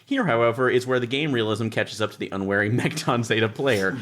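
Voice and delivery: lightly performed reading of rulebook prose; rulebook read aloud. Acted. Reading the rulebook's wry passage aloud to the group. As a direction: read the book's wry text out to the table.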